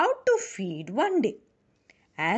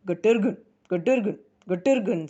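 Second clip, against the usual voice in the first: light quick cooing; pigeon coo; much faster than usual. Acted. The pigeon baby coos, lightly voiced. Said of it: "let out a sound".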